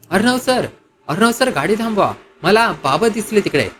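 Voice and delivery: mild acted yell; urgent calling out. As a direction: call out urgently to stop the driver. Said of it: "Ishwari ओरडली".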